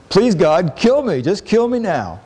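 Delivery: hammed-up Jonah begging to die; despairing Jonah. Preacher imitating Jonah's plea to God to die, mildly overdone. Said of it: "And now he says".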